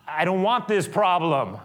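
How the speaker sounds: loud, high fed-up complaint; exasperated Pilate. Acted. Pilate refusing the problem, loud and high. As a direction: push the problem away. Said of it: "is now going".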